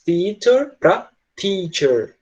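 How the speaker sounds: theater then teacher, each start sound drawn out slowly; slow contrast demo. Shown as a demonstration. Teacher showing students the two first sounds. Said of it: "dá pra ver que é diferente".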